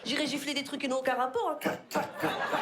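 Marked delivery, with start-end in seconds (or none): 1.6-2.6 unvoiced "clac" slaps; imitated slapping noise. Comedian miming slapping random things, imitated slapping. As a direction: make short slap noises with the mouth.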